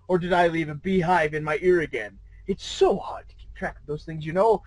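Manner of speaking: a hint of a smooth, purring Q; lightly voiced smug trickster, relaxed and teasing; mild velvety trickster voice. S1 reads the old man's lines to S0, lightly purred. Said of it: "velvety voice that somehow reminded me of Q".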